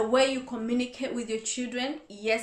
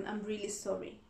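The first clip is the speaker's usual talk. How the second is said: sincere apology; 8 dB quieter than usual. Shown as a demonstration. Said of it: "two different way of communication".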